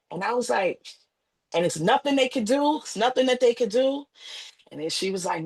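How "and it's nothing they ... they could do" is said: higher, pleading question; desperate plea. Retold or imitated. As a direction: beg to hear there is still hope.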